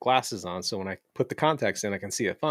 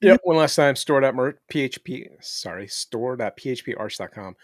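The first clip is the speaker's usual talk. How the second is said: speaking with a numb mouth; numb from the dentist. Real, not acted. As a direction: talk through a numb jaw after the dentist. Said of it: "my mouth is completely numb".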